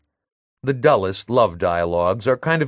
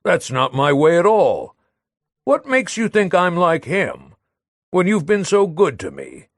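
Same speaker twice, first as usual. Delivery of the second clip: Léon protesting his faithfulness, a touch louder and higher; defensive protest; 6 semitones higher, 3 dB louder than usual. Acted. Léon reassuring Madelon he is faithful, mildly raised protest. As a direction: plead your innocence earnestly. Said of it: "he defended himself".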